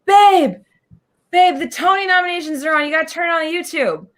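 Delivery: urgently calling her husband from across the house. Retold or imitated. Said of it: "And I was like".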